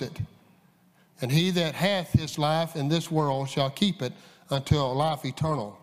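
measured pulpit reading of the King James text; formal Bible reading voice; scripture reading. Acted. Reads John 12 aloud.

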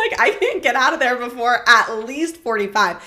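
loud laughing boast. Real, not acted. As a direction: brag while still laughing.

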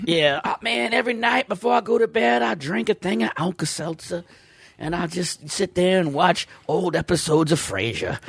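put-on lightly drawled old Southern voice; old Southerner. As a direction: play a folksy old Southern man. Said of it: "I don't know why I'm talking like an old Southerner".

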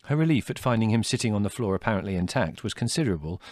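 ordinary delivery

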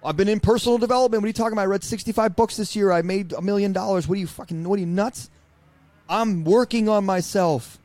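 an incredulous husband hearing the word divorce; stunned outrage. Retold or imitated. Husband protests to his wife, hammed-up incredulous outrage. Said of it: "And I was like, "What?".

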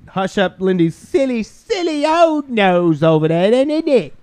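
put-on British. Co-host teasing about a silly old nose, put-on British. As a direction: coo in a mock British accent.

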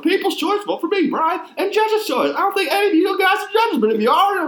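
a high, loud Texan prospector drifting elsewhere; old prospector voice. Acted. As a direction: ham up an old Texas prospector. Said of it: "reading it in that stupid voice".

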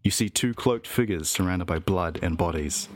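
story narration. Acted. GM narrates vision.

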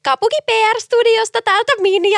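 a hint of a perky nasal caller; nasal PR girl voice. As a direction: prank caller posing as PR girl. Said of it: "Pitäisikö mun enemmän puhua tälleen nenästä?".

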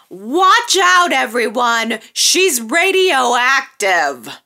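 hammed-up dramatic warning; dramatic quote. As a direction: announce it like a big reveal, stretching radioactive. First quote of the line.

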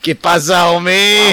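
put-on loud, high caricatured Chicano accent; mock Chicano accent. Co-host answering his new last name, mock Chicano accent. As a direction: holler it in a hammed-up Chicano accent. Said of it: "doing a super racist accent".

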